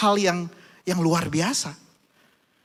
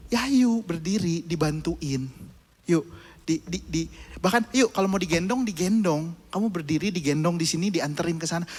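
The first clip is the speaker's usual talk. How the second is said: coaxing father. Retold or imitated. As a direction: gently talk him into getting up. Father coaxes child.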